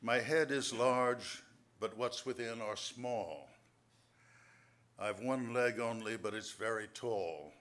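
poem reading. Acted. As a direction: read each line like a riddle to savour. Reads his riddle poem.

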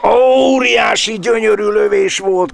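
high, loud burst of delight; excited shout. Real, not acted. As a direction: shout it out at a stunning shot. Commentator shouts at a great shot. (izgatott kiáltás)

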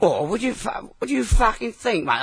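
indignant outburst. Acted. Indignant defence of himself.

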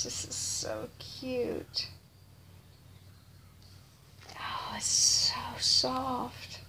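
slow whispered awe; soft, slow, unvoiced delight; hushed whisper. Real, not acted. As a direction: breathe it out slowly, almost silent. Whispering over baby clothes.

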